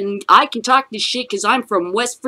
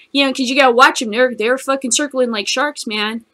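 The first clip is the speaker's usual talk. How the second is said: normal talking voice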